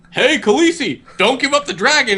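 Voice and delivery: high, urgent mock plea; pleading onlookers. Onlookers warning Khaleesi about her dragon, high mock urging. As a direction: call up to her in a high imitation voice. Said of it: "they're all like".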